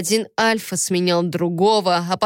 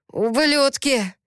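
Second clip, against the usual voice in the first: slow, drawn-out angry hiss, pitched up; furious hiss; 6 semitones higher, slower than usual. A narrator's reading. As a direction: hiss the insult through anger. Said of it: "прошипел Кипер". (злобное шипение)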